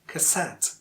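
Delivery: cassette with a weak start and strong SETTE; second-syllable stress. Shown as a demonstration. Teacher introduces an example word, cassette stressed on the end. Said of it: "the second syllable is stressed".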